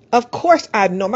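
mock-sarcastic retort; imitating a sarcastic shopper; a touch of scoffing sarcasm. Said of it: "she sarcastically said".

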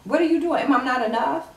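high, loud and hurt; high furious shout. Retold or imitated. Betrayed woman yelling at cheating partner, loud. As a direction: yell it, wounded and enraged. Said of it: "She goes".

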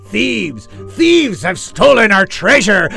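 high, loud alarmed cry; panicked pirate shout. Acted. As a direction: cry out that you've been robbed. Pirate alarm about stolen treasure.

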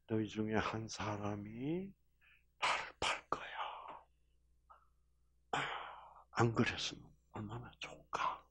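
loving. Acted. Jesus tells the disciples in love, hushed tender whisper. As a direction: grieve tenderly over him in a hush. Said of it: "이래서 사랑이 느껴지도록".

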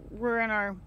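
talking around a breath mint; chewing while talking. Real, not acted. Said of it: "sorry, I'm chewing on a breath mint".

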